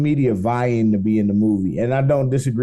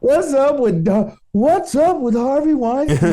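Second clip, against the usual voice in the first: sitcom standup voice; 10 semitones higher, slower than usual. Pretend. Seinfeld bit setup.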